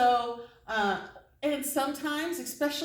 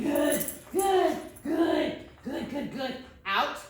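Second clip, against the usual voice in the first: excited praise; 4 semitones higher, slower than usual. Real, not acted. Praising dog during tug.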